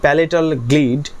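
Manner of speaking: slow, clear dictation for notes; dictating slowly. Shown as a demonstration. Teacher dictates the rule for students' notes, slowly. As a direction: read each word out so they can write it.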